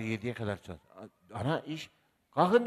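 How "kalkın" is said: high, loud call; imitating a mother's yell; mock shout. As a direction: bark the order at the kids. Mother calling kids to leave.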